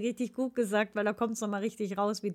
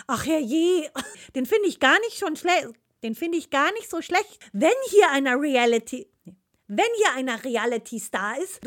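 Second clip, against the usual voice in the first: dramatic role reading; 3 semitones higher, 4 dB louder than usual. Acted. Acting a scripted role.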